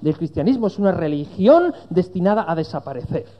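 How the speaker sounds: arguing friend. Retold or imitated. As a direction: pronounce a verdict as the doubting friend. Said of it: "me decía".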